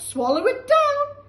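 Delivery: loud, high eager call; excited cry. Acted. George giving grandma medicine, loud excited cry. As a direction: cry out with glee.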